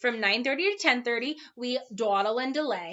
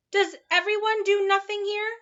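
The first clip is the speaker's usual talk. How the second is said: put-on sleepy boy voice; 10 semitones higher, 4 dB louder than usual. A narrator's reading. Milo yawning question.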